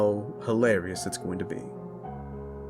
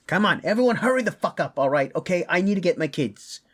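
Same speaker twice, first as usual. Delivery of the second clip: high, raised-voice rallying of the group; urgent demand; 8 semitones higher than usual. Acted. Father hurrying everyone to get his kids, urgent demand. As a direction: pitch jumps up, impatient and pressing.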